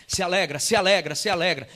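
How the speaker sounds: loud, repeated command; strong insistence. Retold or imitated. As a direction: press it home firmly, beat after beat. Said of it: "muito forte no meu coração". (ordem forte e insistente)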